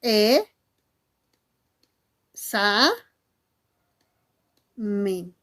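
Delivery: each syllable alone, long gaps between; correct syllable division. Shown as a demonstration. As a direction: split "examen" as "E, sa, men", very slowly. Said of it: "la correcta silabización debería ser".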